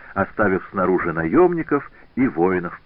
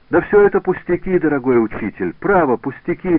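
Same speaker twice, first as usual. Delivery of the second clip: higher, louder brushing it off; eager reassurance; 8 semitones higher, 6 dB louder than usual. A narrator's reading. Wounded pupil insisting to his master, eager reassurance. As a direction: insist it is nothing.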